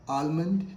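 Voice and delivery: 'Almond' as al-mund, with a clear L; L sounded. Shown as a demonstration. Teacher asks learners, mistaken L sounded. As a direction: say 'Almond' wrongly voicing the L. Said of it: "L is silent here".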